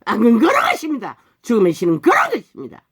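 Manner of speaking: forceful pulpit warning, peaking mid-phrase; emphatic preaching. Real, not acted. Preacher warning what evil and death are, emphatic preaching. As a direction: drive the verdict home.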